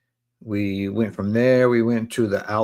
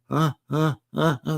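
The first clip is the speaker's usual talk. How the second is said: short, high mock sobbing gasps; high hitching cry noises, acted out; imitated choked sobs; 6 semitones higher than usual. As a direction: imitate being too tearful to talk. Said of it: "And I couldn't even talk".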